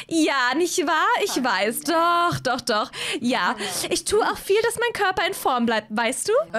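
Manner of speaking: eine etwas höhere, gezierte Hazel-Stimme; Hazel voiced. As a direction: spiel Hazel leicht höher, kokett. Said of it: "Hazel zu spielen ist so anstrengend". (Hazel, leicht höher gesprochen, schwärmt Edgar vor)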